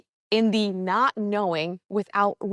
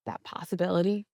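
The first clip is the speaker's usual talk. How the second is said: calm, measured meditation voice with long pauses; guided meditation; 2 semitones lower, 4 dB quieter than usual. Acted. Coach easing listeners into a mindful walk, guided meditation. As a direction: guide them gently through breath and steps.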